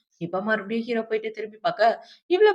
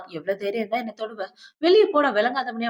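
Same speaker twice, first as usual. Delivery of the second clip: retold scolding. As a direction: imitate a scolding, building at the end. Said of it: "அவனை திட்டி விட்டுட்டு". (லேசாகத் திட்டுவது போல)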